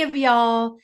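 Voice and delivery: put-on light Southern accent on the drawn-out y'all; a playful touch of Southern accent. Vlogger addressing her non-flying viewers, light Southern accent. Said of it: "that's my Southern accent".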